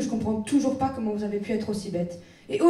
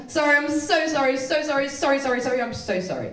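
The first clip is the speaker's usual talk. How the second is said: apologetic English person. Retold or imitated. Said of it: "Vous savez comment ils sont".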